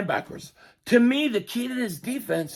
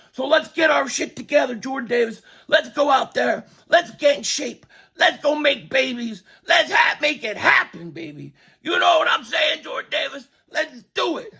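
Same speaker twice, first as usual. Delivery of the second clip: hyped shouting; 6 semitones higher than usual. Real, not acted. Hyping Jordan up.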